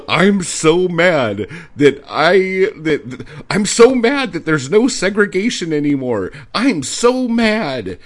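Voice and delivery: high, loud, slow whining caricature; mock whiny critic. Mocking the poetry critic as a whiny bigot. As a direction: whine it out like a sore loser.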